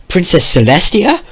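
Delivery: high loud shocked cry. Acted. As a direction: gasp it out in shock.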